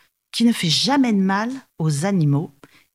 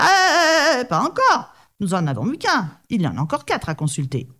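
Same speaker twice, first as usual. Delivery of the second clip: alarmed brahman; 7 semitones higher than usual. Acted.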